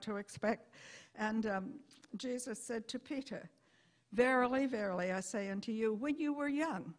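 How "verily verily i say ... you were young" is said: solemn old Bible English, lightly voiced; King James scripture reading. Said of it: "Now, I'm going to say this in plain old English".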